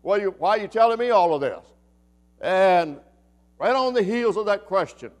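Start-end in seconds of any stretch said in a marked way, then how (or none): 0.0-1.6 frustrated Elisha. Acted. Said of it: "out of a sense of frustration".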